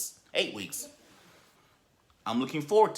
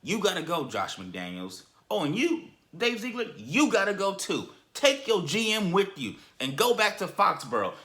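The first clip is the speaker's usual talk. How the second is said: mock firm owner; 5 semitones higher, 3 dB louder than usual. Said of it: "manned up and said".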